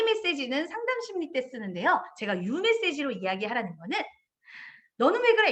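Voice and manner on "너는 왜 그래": sharp reproach pitched higher and louder; a hint of an annoyed parent scolding; mock scolding. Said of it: "이렇게 얘기하는 게 아니라".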